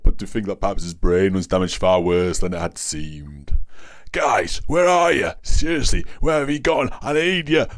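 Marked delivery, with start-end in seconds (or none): 4.1-7.6 high, pleading call; meek cry. A narrator's reading. Lone policeman to his vanished comrades, meek high cry. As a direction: cry out meekly in a much higher voice. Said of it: "the policeman meekly cried".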